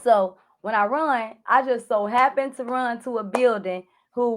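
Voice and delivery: ordinary talk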